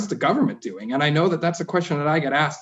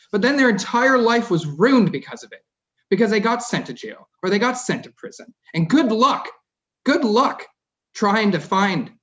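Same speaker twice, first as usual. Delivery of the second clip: getting emotional; 7 semitones higher, 4 dB louder than usual. Real, not acted. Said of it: "I'm getting emotional about it".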